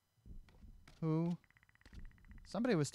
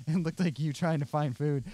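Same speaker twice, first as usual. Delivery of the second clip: laughing; 5 dB louder than usual. Real, not acted. Laughing at friend Glenn's clip.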